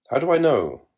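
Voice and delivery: high piping voice; piped. A narrator's reading. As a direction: pipe it up high. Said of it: "piped Belacqua".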